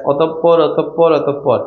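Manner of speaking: "অতঃপর" said three times as a model, with a doubled p; teacher's careful repeat of "অতঃপর"; pronunciation demo. Shown as a demonstration. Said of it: "এই শব্দটা আমাকে উচ্চারণ করে দাও".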